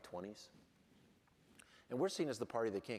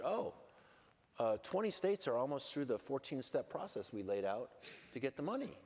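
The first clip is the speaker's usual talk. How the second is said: imitating a cheerful official, pitched higher; mock cheerful; 5 semitones higher than usual. Congresswoman mimicking a cheerful witness's unembarrassed cheer. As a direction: chirp it out like nothing is wrong. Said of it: "she was very cheerful".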